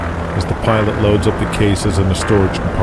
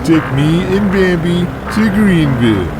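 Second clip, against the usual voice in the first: brash champ voice; 9 semitones higher than usual. Acted. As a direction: boast like a heavyweight champ. Donnie voiced.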